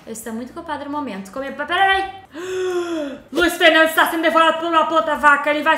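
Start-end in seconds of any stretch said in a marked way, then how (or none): 2.1-3.2 sharp shocked gasp. Real, not acted. Watching the sim get eaten, sharp gasp. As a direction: gasp in horror.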